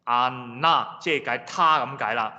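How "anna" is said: Anna with a held An and lighter na; first-syllable stress. Shown as a demonstration. Teacher repeating the Russian word, Anna stressed on An. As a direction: put the weight on An in Anna. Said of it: "第一個音節就要重嘅".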